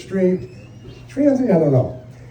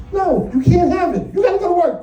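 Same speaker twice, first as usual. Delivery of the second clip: higher, louder mock wife; bossy wife voice, hammed up; wife laying down the law; nagging wife; 10 semitones higher, 4 dB louder than usual.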